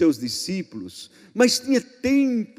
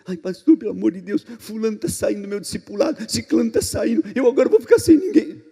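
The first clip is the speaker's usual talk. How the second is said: mock panic; 5 semitones higher, faster than usual. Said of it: "Não tem medo".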